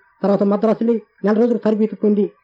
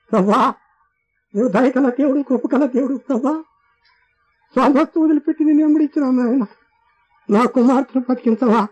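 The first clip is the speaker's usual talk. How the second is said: tearful prayer; 6 semitones higher than usual. Retold or imitated. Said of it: "అని కన్నీరు కారుస్తూ".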